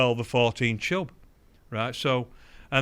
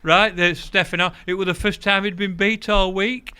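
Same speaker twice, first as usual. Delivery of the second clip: laughing while talking; 4 semitones higher, 7 dB louder than usual. Real, not acted. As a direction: tell it while still cracking up.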